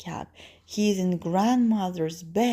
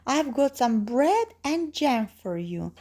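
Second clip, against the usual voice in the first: high fake girl voice; wolf posing as girl; 7 semitones higher than usual. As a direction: keep up the girlish disguise, pitched high. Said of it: "says the wolf".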